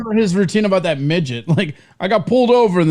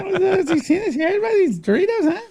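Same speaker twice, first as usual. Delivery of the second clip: lightly hammed-up observational comic; a hint of a cheesy club comic; standup comic impression; 10 semitones higher, faster than usual. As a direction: ask it like a cheesy standup asking the crowd.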